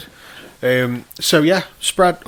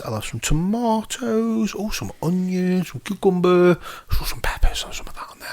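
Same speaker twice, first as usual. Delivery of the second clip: picking-out singsong; 8 semitones higher than usual. Retold or imitated. Diner choosing salad bits at the buffet, high singsong fading away. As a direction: sing through the items, fading into breath.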